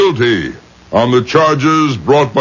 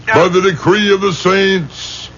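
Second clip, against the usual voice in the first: higher, booming curse, slowed on the last words; shouted excommunication; 5 semitones higher than usual. Acted. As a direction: pronounce the anathema like divine judgment. Rabbi pronounces excommunication.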